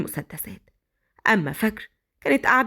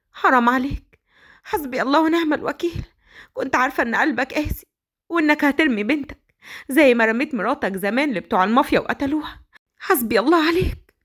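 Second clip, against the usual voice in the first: reproachful nanny; 2 semitones higher than usual. Acted. Nanny cursing the father for abandoning his daughter, bitterly. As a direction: call God against him.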